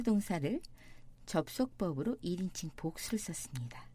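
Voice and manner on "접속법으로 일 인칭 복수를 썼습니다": whisper. Real, not acted. Whispered aside in lesson.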